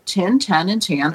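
"Tin, ten, and tan", each vowel clearly different; three distinct pronunciations. Shown as a demonstration. Second grader lecturing the class, "Tin, ten, and tan" carefully distinguished. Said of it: "three different pronunciations".

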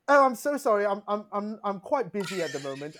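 apologetic, badly faked Essex accent; polite, hesitant pretend Essex accent; put-on Essex accent. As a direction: fob them off in mock Essex. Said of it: "when I put on the accent".

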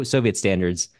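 usual speaking voice

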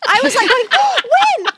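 high, loud burst of excitement; gasping with eager delight; excited. Retold or imitated. Host recalls reading about the park, thrilled. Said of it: "I was getting so excited".

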